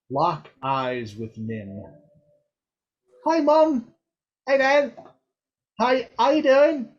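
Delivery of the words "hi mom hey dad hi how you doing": put-on much higher, chatty young elf voice; Nim's bright voice. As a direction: play Nim, high and eager. Nim greets her parents.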